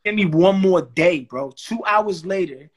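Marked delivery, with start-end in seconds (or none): 0.0-1.5 louder and slow, leaning on every word; milk the request for laughs, slow and loud; emphatic retelling. Retold or imitated. Retelling his bold request, triumphant.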